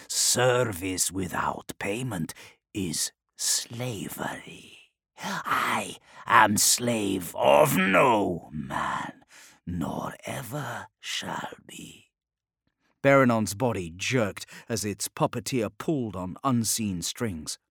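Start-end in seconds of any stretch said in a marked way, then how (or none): 0.1-12.1 demon voice. Acted. Demon answers Scrivok.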